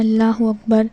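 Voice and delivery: اللہ اکبر run together as a common mistake; wrong pronunciation. Shown as a demonstration. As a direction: demonstrate the faulty, joined-up اللہ اکبر. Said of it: "تو یہ چیز غلط ہے".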